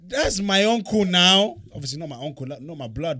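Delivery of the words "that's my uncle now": high, loud, slow gleeful boast; excited boast. Retold or imitated. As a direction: crow it out, delighted. Boasting about Idris.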